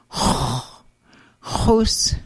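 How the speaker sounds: "hus" rasped deep with rounded lips; rounded guttural x. Shown as a demonstration. Teacher modelling rounded X wedge for learners, guttural h. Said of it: "a guttural H with rounded lips".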